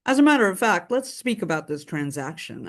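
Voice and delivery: lightly mocked professional phone voice; a touch of businesslike realtor formality. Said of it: "we love your realtor voice".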